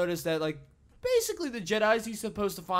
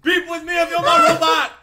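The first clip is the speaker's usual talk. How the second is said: robot rapper voice; 11 semitones higher, 8 dB louder than usual. Pretend. Continuing the robot rapper bit.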